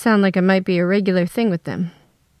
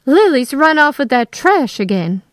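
higher, louder indignant mother; indignant outburst; 6 semitones higher, 5 dB louder than usual. A narrator's reading. Mother bursts in about runaway daughter, indignant. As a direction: burst in with heated accusation.

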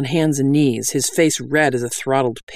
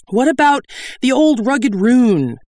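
slow, high, loud suggestion; calling out; 10 semitones higher, 5 dB louder than usual. A narrator's reading. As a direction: call it out grandly, drawn out. Bandit calls out a hymn request.

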